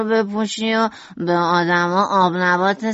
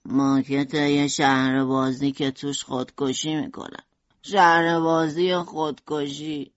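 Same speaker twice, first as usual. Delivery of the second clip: lower, slow voice holding back tears; choked-up; 4 semitones lower, slower than usual. A narrator's reading. Vincent tells family about his model, choked low. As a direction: speak through a lump in the throat. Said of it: "ونسان با بغض گفت".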